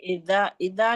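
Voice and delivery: اذا with a light, gentle ذ; soft dhal. Shown as a demonstration. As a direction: correct the pupil with a soft ذ in اذا. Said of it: "نرمی سے پڑھیے". (اذا کی ذال نرمی سے)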